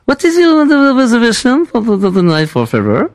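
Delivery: lightly put-on French-accented English, hesitant; prank caller. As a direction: play a clumsy foreign caller, stumbling through English. Prank call in broken English.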